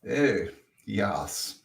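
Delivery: put-on lightly posh English old chap; a hint of a clubby gentleman; understated posh British. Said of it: "Jolly good one".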